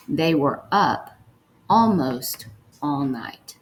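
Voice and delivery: slow dictation, repeated. Shown as a demonstration. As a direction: say it slowly again for the writers. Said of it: "The first one we're gonna write is".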